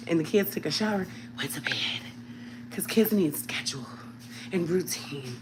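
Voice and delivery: whispering. Real, not acted. Whispering about kids' routine.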